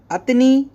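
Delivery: अतनी said crisp as at-nee, two syllables; Arabic word atni. Shown as a demonstration. Teacher models अतनी for Hindi learners. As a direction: say अतनी clipped, no middle vowel. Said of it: "अतनी आपको ऐसे नहीं बोलना है".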